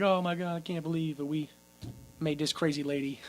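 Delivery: low, soft mock remorse; mock hushed dismay. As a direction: murmur it like a stunned onlooker. Townsfolk watching the lady cry.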